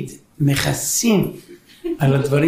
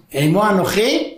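verse quoted slowly; 2 semitones higher, slower than usual. Acted. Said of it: "אבא מצטער איתו".

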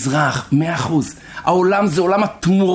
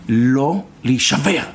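slow firm exhortation; 4 semitones lower, much slower than usual. Real, not acted. Preacher's answer to the outburst.

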